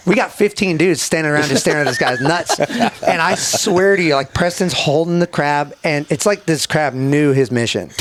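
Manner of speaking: laughing while telling; words breaking into laughter. Real, not acted. Laughing through story.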